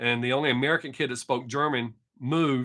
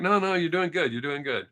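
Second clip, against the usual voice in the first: lightly imitated encouragement, starting higher and settling down; kind reassurance; 3 semitones higher than usual. German speakers encouraging a learner of their language, imitated kind reassurance. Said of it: "they're always kind".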